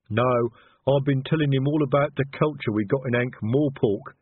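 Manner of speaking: troll breezily showing off culture; airy troll. A narrator's reading. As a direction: answer airily in a lumbering troll voice. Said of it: "said Detritus airily".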